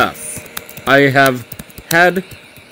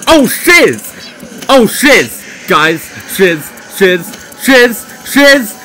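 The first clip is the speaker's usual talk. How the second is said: startled panicky shout; 4 semitones higher, slower than usual. Real, not acted. Player jolted by a jump scare, high panicky repeated shouting. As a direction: blurt it out in a fright.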